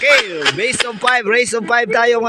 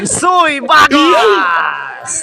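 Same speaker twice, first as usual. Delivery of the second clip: long, stretched, shouted team name; boxing ring announcer stretching it; drawn-out announcer call; much slower than usual. Acted.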